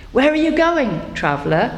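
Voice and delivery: high, light bird voice calling down from a tree. Acted. Bird in an apple tree calling to a traveller, high. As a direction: call down like a little bird from the branches. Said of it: "a bird who called to him up high".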